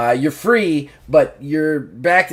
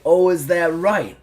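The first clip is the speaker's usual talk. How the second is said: slow, higher taunting brute voice; taunting bull; 7 semitones higher, 4 dB louder, slower than usual. Acted. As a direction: drag out the challenge like a cocky bull.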